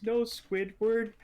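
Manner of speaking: high, slow excited cartoon voice; be SpongeBob correcting his friend; SpongeBob impression. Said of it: "And SpongeBob goes".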